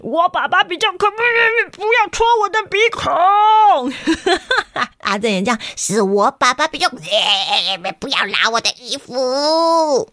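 put-on high, slightly whiny kid voice; children tussling and whining at each other; hint of whining child. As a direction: complain like a kid in a scuffle. Kids fighting, voiced.

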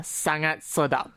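三安色道 said slowly and carefully; slow demo. Shown as a demonstration. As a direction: spell out 三安色道 word by word. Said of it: "你可以加". (慢慢示范"三安色道")

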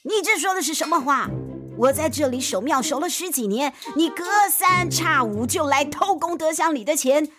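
put-on furious old temple keeper; angry old man. A narrator's reading. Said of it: "老爷爷更生气了".

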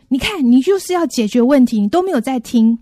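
accusing. Retold or imitated. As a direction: scold him for not listening. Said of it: "这个受助者他就说".

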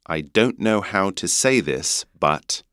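British vowel in "but"; British accent. Shown as a demonstration. Teacher repeating the sentence for learners in a British accent. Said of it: "刚刚英国腔会变成but".

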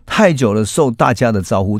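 略带激动地提高声音; 突然放开嗓子道谢. Acted. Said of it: "他突然很大声的说". (佐佐木向两位老朋友激动地大声道谢，声音稍高)

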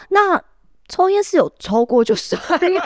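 patient asking the nurse about smoking, laughing sheepishly; laughing question. Retold or imitated. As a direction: sneak the question out with a guilty giggle. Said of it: "我说，哦，".

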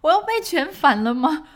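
high, loud, rising panic; terrified she's taken for a terrorist; panicked inner thoughts. Retold or imitated. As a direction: spiral into alarmed questions. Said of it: "然后很害怕。".

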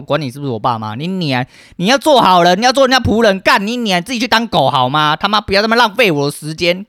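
loud, high, swearing tirade; furious rant. Real, not acted. Ranting about the parents' friend who blamed him, furious and loud. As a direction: let the anger explode, cursing hard.

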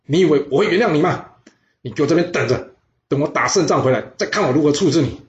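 king scolding the general who tugs at him; angry scolding. Acted. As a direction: berate the clinging minister. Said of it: "并且大声的骂他说".

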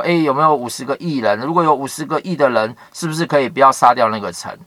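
fast, chatty paraphrase; quick plain-words retelling of Abraham's plea; casual retelling. Retold or imitated. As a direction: rattle it off like everyday talk. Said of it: "就跟耶和华在这边想说".

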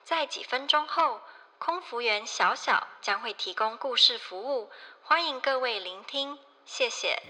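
gentle flight attendant PA voice; in-flight announcement. Pretend. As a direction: announce it to the cabin politely. Cabin announcement in Chinese.

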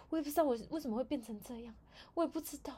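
high, put-on tearful whine; whiny fake sadness. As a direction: play the coworker faking tears. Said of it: "他就说".

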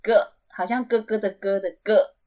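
"G" said as "ge", like 哥, not the letter name. Shown as a demonstration. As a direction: demonstrate "G" with the sound of 哥. (“G”念成“哥”的音)

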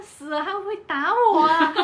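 half-laughing replay of her panic; mock fear. Trapped in a karaoke room with her ex, mock panic. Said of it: "我就有点害怕欸".

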